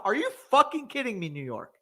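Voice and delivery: raging at New York's pick, voice up high; exasperated cussing. Real, not acted. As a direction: yell at the team in disbelief. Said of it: "I'm gonna cuss".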